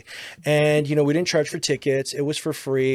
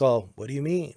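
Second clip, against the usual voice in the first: unreactive line delivery, in an even pitch; not truly reacting. Shown as a demonstration. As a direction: say it as if you weren't listening. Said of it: "not reacting to what's truly being said".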